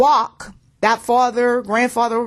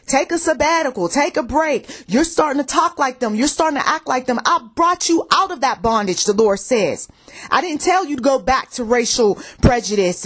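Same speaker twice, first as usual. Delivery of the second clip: raised preacher's voice, firm and urgent; preaching rebuke. Acted. Preacher relays God's rebuke to the congregation, firmly urgent. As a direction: drive home God's warning to the congregation.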